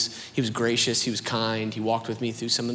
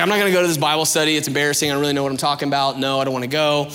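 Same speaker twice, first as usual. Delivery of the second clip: acted refusal; 3 semitones higher, 6 dB louder, faster than usual. Younger self dodging a Bible study invitation, protesting. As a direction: rattle off excuses insistently.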